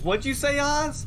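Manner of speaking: high, hammed-up provocation; mock taunting challenge. Falcone taunting Oz outside, high mock scorn.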